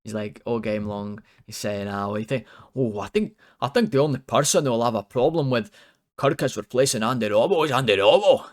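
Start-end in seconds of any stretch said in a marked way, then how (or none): 1.9-8.4 louder, excited mock Scottish commentary; excited Scottish pundit. Mocking Ali McCoist on the substitution, in an excited Scottish accent. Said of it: "Ali McCoy's got really excited".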